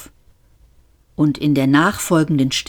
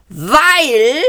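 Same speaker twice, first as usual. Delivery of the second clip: high, loud shouted word; shouting policeman; 9 semitones higher, 4 dB louder than usual. A narrator's reading. Policeman beginning his shouted explanation, loud. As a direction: bark the opening word. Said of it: "schrie der Polizist".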